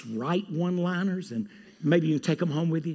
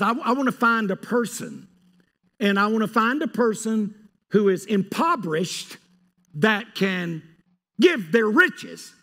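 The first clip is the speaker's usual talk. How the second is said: raised, louder preaching voice as Jesus; Jesus's words, raised and loud; voicing Jesus; 5 semitones higher, 5 dB louder than usual. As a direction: speak as Jesus pleading, pitched up. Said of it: "So Jesus says".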